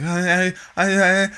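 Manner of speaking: put-on high-pitched stammering little kid; imitated mumbling kid. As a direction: mimic a caught child, stuttering up high. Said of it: "just mumbling, like".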